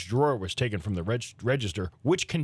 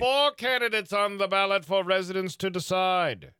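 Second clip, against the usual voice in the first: put-on old-timey town crier; 8 semitones higher than usual. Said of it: "special old-timey voice".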